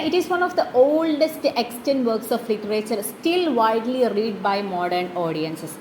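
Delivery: reading the English text very slowly for notes; measured classroom dictation. Shown as a demonstration. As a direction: read it out slowly so the class can write it down.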